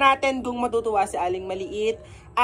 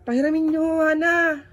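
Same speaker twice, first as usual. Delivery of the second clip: calling out; 8 semitones higher than usual. Real, not acted. Vlogger calling the kids to lend a phone.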